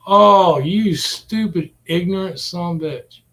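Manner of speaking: a loud burst of "Oh," then a fast insult; a real angry outburst at the screen. Real, not acted. Cursing the reckless rider in the video, a loud angry burst.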